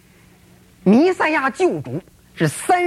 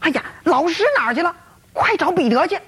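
anxious call; 5 semitones higher, faster than usual. Acted. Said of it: "冲着身边的约安娜就喊".

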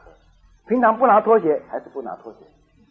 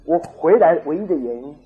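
angry husband; 4 dB louder than usual. Retold or imitated. Husband setting his wife straight, mildly angry. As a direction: lay it down firmly, mildly angry. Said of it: "她丈夫很生气".

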